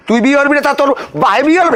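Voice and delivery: high-pitched angry challenge; angry scolding. Acted. Father scolding his son for refusing the marriage, angry. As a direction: berate him with rising indignation.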